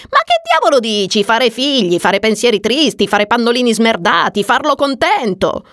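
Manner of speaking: mildly heated complaint to a friend; exasperated rant. Acted. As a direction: rattle off each chore with disgust. Agnes rants about married sex.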